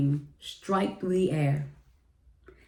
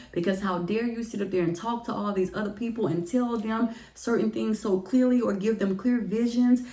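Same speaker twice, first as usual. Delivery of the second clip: frustrated venting; 4 semitones higher than usual. Retold or imitated. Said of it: "truly letting it all out to God".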